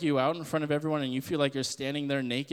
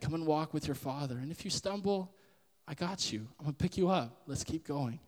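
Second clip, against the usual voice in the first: God comforting. Retold or imitated. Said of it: "God's going".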